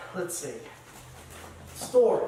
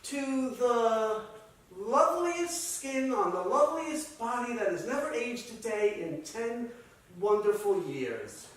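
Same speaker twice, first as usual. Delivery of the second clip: loving toast; 4 semitones higher than usual. Acted. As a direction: propose an adoring toast, pitched up. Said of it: "we toast again".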